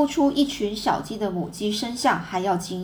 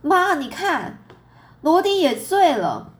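high, drawn-out cry to mother; shrieking; 8 semitones higher, 5 dB louder, slower than usual. A narrator's reading. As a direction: shriek out the discovery. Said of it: "黛西尖叫一声".

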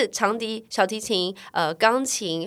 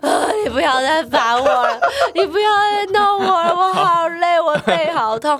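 put-on high, loud childish whine with a laugh; young self whining to dad, high and loud; whiny child; 10 semitones higher, 10 dB louder than usual. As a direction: whine like a fed-up little kid.

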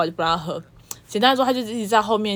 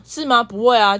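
rude retort; 3 semitones higher, 4 dB louder than usual. Retold or imitated. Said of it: "超没礼貌".

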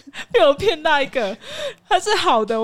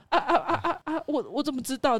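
stammering dad; 3 semitones higher, 4 dB quieter than usual. Retold or imitated. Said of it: "我爸就支支吾吾啊".

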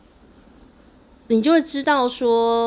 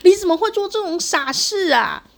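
even higher, louder, near a shout; anguished angry mother; 11 semitones higher, 5 dB louder than usual. Retold or imitated. Mother at the hospital bed, near-shouting in anguished anger. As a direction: push the scolding to its peak. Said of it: "很悲愤呢".

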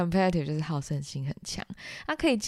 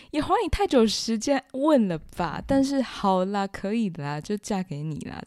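mock grumble that falls away into giving in; tsundere acceptance. Shown as a demonstration. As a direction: complain first, then grudgingly accept. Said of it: "超傲娇". (傲娇地抱怨后答应)

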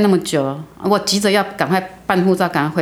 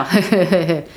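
creepy laugh. Retold or imitated. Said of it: "他真的这样笑".

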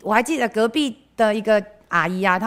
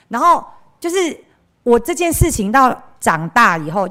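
ordinary talk, nothing marked

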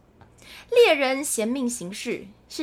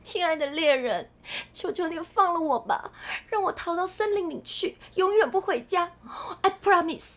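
pleading princess; 5 semitones higher than usual. Acted. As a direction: plead for your life as the princess. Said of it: "我也要cosplay". (高声轻柔求饶的公主)

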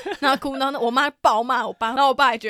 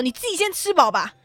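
snarky comeback; 5 semitones higher than usual. Retold or imitated. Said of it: "我那时候就已经很呛".

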